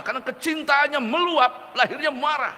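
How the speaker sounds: preacher lifting the pitch with feeling; rising fervour. Acted. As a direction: let the love overflow into the voice. Sermon peak about anger rising.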